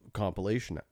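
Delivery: burping mid-sentence; words broken by a burp. Real, not acted. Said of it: "Sorry, I'm burping a lot".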